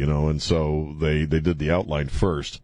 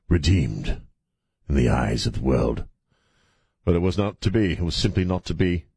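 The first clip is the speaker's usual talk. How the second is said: sudden put-on British accent; contrived British accent; 2 semitones lower than usual. Host lamenting his team's loss, contrived British accent. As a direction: slip into a stagey, measured British accent. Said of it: "speaking suddenly in a contrived British accent".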